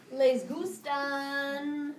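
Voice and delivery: very slow drawn-out Les gustan; teacher repeating the corrected words slowly; slow dictation. Shown as a demonstration. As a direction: stretch it out as you write. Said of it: "Thank you".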